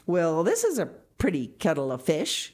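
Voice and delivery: loud, indignant outburst; wrathful. A narrator's reading. Marilla vents at Matthew over the mix-up, wrathful. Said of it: "she said wrathfully".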